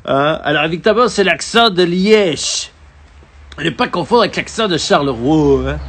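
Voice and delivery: hammed-up Belgian accent like a Liège host; mock Belgian accent. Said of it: "Je vais faire l'accent belge". (imitation appuyée de l'accent belge liégeois)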